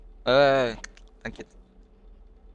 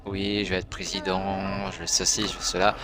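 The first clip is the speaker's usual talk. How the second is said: imitation de président; 4 semitones lower than usual. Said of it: "il se présente devant toi, tu sais, genre".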